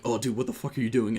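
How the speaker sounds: casual, easygoing joking question; light, kidding tone between buddies. Shown as a demonstration. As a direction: run it together like friendly banter. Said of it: "in a joking manner".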